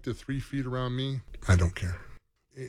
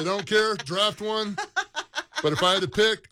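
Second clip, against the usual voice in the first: mock exclaim; 9 semitones higher, 6 dB louder than usual. Quoting himself to wife.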